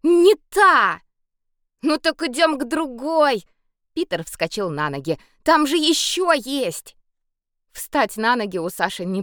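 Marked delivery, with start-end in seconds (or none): 0.0-1.0 high, loud angry snap; angry insistence. A narrator's reading. Sasha furious at the wrong puddle, loud angry snap. 1.8-7.0 eager. A narrator's reading. Boy cheerfully urges on.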